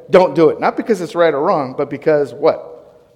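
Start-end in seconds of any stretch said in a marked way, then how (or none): 0.1-0.6 heart's stubborn refusal. Pretend. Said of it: "My heart is saying".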